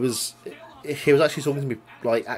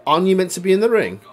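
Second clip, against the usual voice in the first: higher, louder, quick challenge; mock incredulous question; 8 semitones higher, 6 dB louder, faster than usual. Retelling Mad Dog catching him backstage, mock incredulity. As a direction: imitate someone baffled and demanding an answer. Voicing puzzled wrestler backstage.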